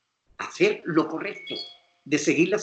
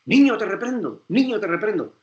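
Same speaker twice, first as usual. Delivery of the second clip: a higher, louder, half-serious parental rebuke; mock stern father; 5 semitones higher, 4 dB louder than usual. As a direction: ham up a father scolding his kid by rote. Father scolds misbehaving child.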